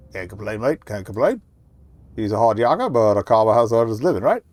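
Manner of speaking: amateur New Zealand builder voice; loosely Kiwi working bloke; attempted Kiwi accent. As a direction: put on a rough Kiwi accent. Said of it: "how to do a Kiwi accent".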